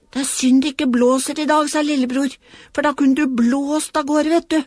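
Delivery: a hint of a chatty child; small boy voice. Little boy chatting to his toy on the water. Lillebror talking to Knerten.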